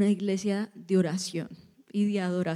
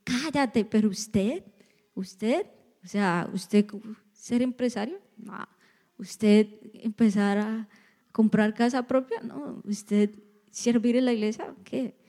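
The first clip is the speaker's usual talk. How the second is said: mock incredulous questions, rising at ends; doubting naysayers; 3 dB quieter than usual. Outside voices discouraging a believer, mildly mocking disbelief. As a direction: lightly imitate people doubting someone's plans. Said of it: "vienen esas voces externas a decirte".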